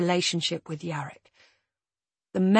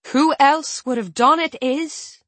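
high, loud, pressing question; rising voice; 7 semitones higher, 8 dB louder than usual. A narrator's reading. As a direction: push the pitch up and up. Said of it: "her voice rises like hot air".

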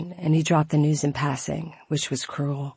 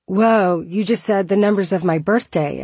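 surprised; 4 semitones higher, 4 dB louder than usual. Retold or imitated. Amazed reply to stranger.

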